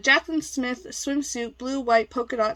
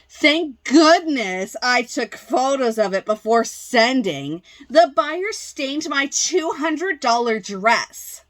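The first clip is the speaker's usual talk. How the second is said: slow, heavily stressed outraged complaint; hammed-up indignation, punching key words; indignant seller; 4 dB louder than usual. Seller insisting the buyer stained the dress, indignant. Acting out seller's angry message.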